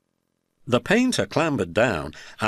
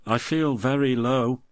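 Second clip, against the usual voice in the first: pathetic; 5 semitones higher than usual. Acted.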